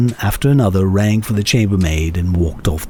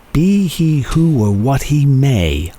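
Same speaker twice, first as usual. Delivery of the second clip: resolute vow; 5 semitones higher, slower than usual. A narrator's reading. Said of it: "I said to myself".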